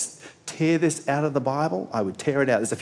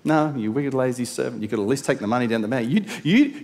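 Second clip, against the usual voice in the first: incredulous rebuke; 5 semitones higher, 6 dB louder than usual. Retold or imitated. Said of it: "master replies".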